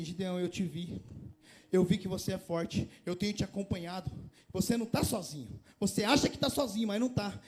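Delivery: tender divine reassurance; gentle voice of God. Acted. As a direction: speak as God comforting Gideon. Voicing God to Gideon.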